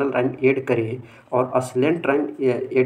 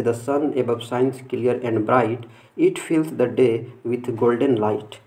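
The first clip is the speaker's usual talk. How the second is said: slow, measured reading of a poem; much slower than usual. Shown as a demonstration. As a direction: read each line slowly like a recited verse. Reads example poem aloud.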